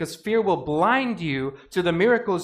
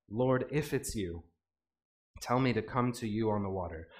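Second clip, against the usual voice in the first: hesitant Peter; 5 semitones lower, 6 dB quieter than usual. Acted. Peter asking Jesus from the boat, soft and hesitant. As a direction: ask tentatively, almost under your breath.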